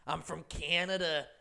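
hammed-up mock Canadian accent on I'm from Canada; bad Canadian accent. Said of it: "probably the worst accent that you're likely to hear".

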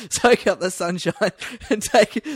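put-on slow, high Wiltshire yokel accent. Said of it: "that's the Wiltshire accent".

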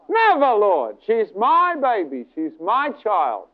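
slow, emphatic fatherly refusal; acted heartfelt refusal; fervent protest. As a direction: protest with feeling, stretching the words. Father protests to God, retold.

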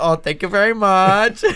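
slow, lightly caricatured thanks; Sam thanking. Retold or imitated. Boss given his way, lightly imitated drawn-out thanks. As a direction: drag out the mock gratitude, laugh behind it. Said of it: "your impression of him".

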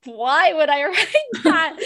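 slow, chuckling mid-question; amused friend laughing. Retold or imitated. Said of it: "he's like".

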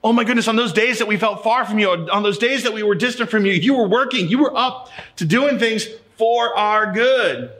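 awed realization. Pretend. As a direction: voice heaven's sudden awe, slowing at the end. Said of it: "We're gonna see".

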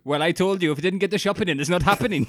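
high, loud Welsh scolding; mock Welsh accent. Comedian playing a partner refusing in bed, mock Welsh accent. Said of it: "if my missus did a Welsh accent".

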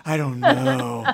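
slow, odd put-on voice; slow weird high voice. Imitating her weird high voice from a weed high. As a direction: stretch it out in a strange voice. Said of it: "talk in a really weird voice".

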